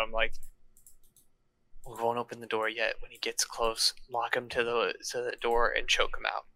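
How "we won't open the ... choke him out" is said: stage whisper. Acted. Player as character plots ambush with Basidio, stage whisper. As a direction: plot it under your breath. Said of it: "So I kinda stage whisper to Basidio".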